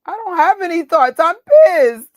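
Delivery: hammed-up angry blurt; loud outburst. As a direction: blurt it out, fed up. Venting anger at the film.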